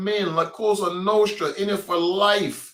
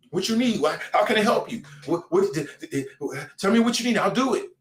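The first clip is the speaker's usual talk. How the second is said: mock eager snitch; 3 semitones higher, faster than usual. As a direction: fall over yourself offering to cooperate. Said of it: "trying to work with the boys".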